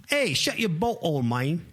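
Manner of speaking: put-on a failed try at a New Zealand accent; mock New Zealand accent, clearly not landing; bad New Zealand accent. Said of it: "I can't do New Zealand".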